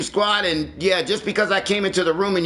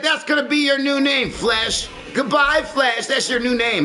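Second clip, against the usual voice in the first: higher-pitched retold taunt; taunting retort; 6 semitones higher than usual. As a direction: throw the retort at him, pitched up. Acted retort to departed player.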